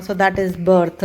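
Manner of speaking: slow and clear, birthday stressed; slow example. Shown as a demonstration. Teacher reading a birth example to students, slowly. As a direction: read it out slowly for learners. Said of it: "बर्थ यानी कि जन्म".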